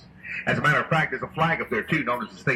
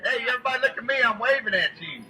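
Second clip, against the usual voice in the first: calling from far away; 7 semitones higher than usual. Real, not acted. Calling to people on shore.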